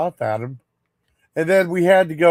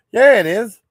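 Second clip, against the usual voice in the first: higher and louder, a snapped retort; mock angry dad; 6 semitones higher, 5 dB louder than usual. Dad insists the glove matters, in a higher, louder mock retort. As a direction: bark it back like a stubborn father.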